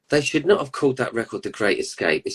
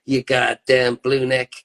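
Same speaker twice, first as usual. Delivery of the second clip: mock American; 3 semitones higher, slower than usual. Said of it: "the Yankees and the Confederates".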